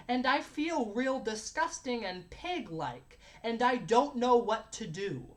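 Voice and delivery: put-on slow, stilted childlike reading aloud; four-year-old's recital. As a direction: recite it slowly, word by word, like a little kid. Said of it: "in the voice of a fucking four-year-old".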